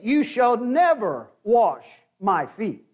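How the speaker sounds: slow, with NEVER leaned on; strong objection. Retold or imitated. Peter refusing to let Jesus wash his feet, firm. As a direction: press hard on never. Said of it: "Peter objects very strongly".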